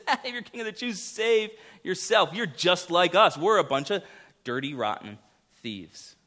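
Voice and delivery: high, sneering jeer at the king on the cross; mocking thief. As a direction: taunt him like a scornful criminal. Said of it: "the one thief mocks him".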